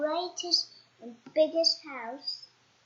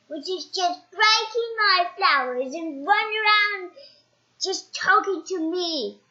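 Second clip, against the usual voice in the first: indignant complaint; 3 semitones higher, 4 dB louder than usual. Acted. Mister Uppity complaining about the flower-breaking goblin, loud and indignant. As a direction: pour out an aggrieved complaint.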